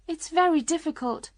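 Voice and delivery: put-on high-pitched girl's voice; young Alice. A narrator's reading. Alice explaining her trouble with the cake, high girlish voice. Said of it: "said Alice".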